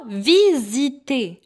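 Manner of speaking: "visité" with the S voiced as a buzzing Z; teacher's clear "visité", Z sound between the vowels. Shown as a demonstration. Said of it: "Ça se prononce Z".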